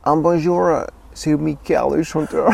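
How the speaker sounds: high, bright-voiced pop star greeting; impression of a singer. Shown as a demonstration. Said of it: "là, euh, Mika".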